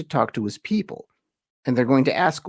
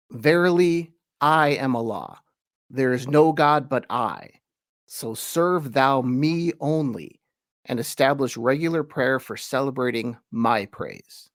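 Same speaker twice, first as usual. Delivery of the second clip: scripture reading. Acted. Teacher reading a Quran translation aloud, solemn. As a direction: read it like holy text, measured.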